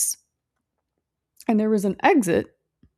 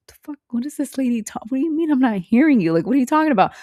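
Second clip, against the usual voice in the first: incredulous retort; 6 semitones higher, much faster than usual. Retold or imitated. Her own baffled retort in dream.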